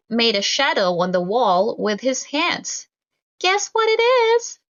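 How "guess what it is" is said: guessing game. Acted. Child playing guessing game.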